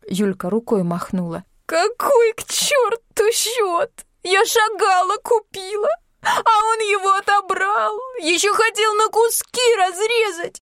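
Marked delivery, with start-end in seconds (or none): 1.7-10.6 very high, slow weepy complaint; tearful wailing. A narrator's reading. Yulka complains about her father through tears, wailing.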